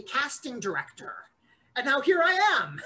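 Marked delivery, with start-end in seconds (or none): 1.8-2.8 fast, louder triumphant shout; excited. Pretend. Casting director brags to the actor about his wish, fast and shouting. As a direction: burst out with glee at the punchline.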